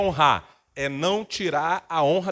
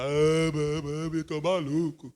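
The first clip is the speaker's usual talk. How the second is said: mock whiny son; slower than usual. Imitating a traumatized son mockingly.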